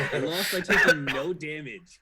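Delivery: loud, slow, laughing complaint; high, incredulous laughing outburst; laughing disbelief. Real, not acted. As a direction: protest through real laughter. Player laughs at own absurd loss.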